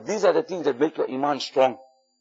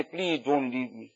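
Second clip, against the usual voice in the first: pleading; 6 semitones lower, 12 dB quieter, slower than usual. Acted. Ramadan personified crying farewell.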